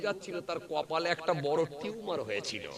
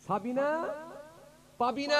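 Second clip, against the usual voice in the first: calling out; 9 semitones higher than usual. Retold or imitated. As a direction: call the girls' names across the field. Father calling lost daughters again.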